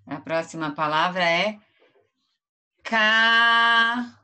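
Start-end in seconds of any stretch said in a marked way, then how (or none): 2.8-4.2 "cavalo" loud and high, ca... va... lo; syllable by syllable. Shown as a demonstration. Teacher announces the next word to pupils, syllable by syllable. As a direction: call out "cavalo" slowly with long gaps between syllables. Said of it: "vamos bater palmas pra fazer a palavra".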